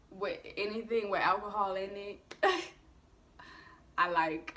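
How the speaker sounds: loose, tipsy delivery with a laugh. Real, not acted. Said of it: "I know I sound like a drunk right now".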